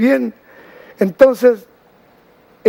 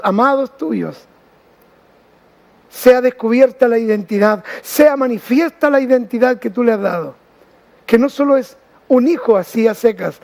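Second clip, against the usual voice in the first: earnest, measured prayer with pauses between phrases; spoken prayer. Real, not acted. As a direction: pray aloud for the listeners, phrase by phrase. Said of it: "Voy a orar".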